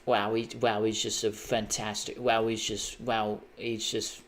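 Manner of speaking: a light hint of Beckham's halting praise; lightly imitating Beckham, halting and trailing; Beckham impression. Imitating Beckham for a friend, lightly voiced English accent. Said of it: "That's my Beckham impression".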